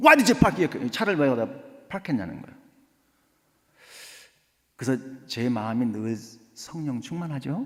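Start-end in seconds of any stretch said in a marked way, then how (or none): 0.0-0.9 put-on loud, very slow, angry old lady voice. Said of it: "따지려고".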